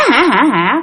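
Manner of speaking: brief spoken "ha ha ha" of a spirit; lightly acted ghost laugh; spirit's mock laugh. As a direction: imitate a laugh in separate beats. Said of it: "Xong rồi cười hả".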